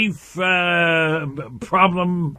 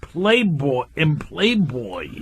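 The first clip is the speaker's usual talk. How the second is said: staccato; 4 semitones lower than usual. Real, not acted. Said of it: "Why are you talking one word at a time?".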